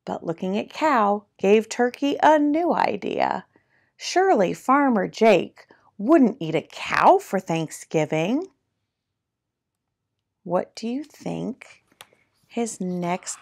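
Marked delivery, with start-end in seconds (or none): 0.0-8.5 animated picture-book narration, key words punched; lively storytime reading with swooping pitch; reading to children. A narrator's reading. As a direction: read it like a playful storyteller.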